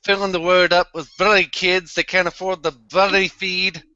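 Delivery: scripted bit in a put-on English accent. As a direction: recite it in a British accent, lifting the questions. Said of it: "he went English there".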